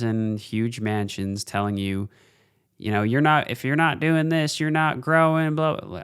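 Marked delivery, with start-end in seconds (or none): 3.0-6.0 mock Southern accent. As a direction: mimic a preachy guru with a Southern twang. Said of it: "why they're fucking Southern".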